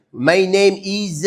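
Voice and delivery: put-on slow, halting French-accented English; imitating a French-speaking beginner, word by word; beginner's English. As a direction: sound out a basic English phrase with a French accent. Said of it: "I used to talk like this".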